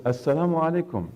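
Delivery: calling the greeting at the door; first greeting. Retold or imitated.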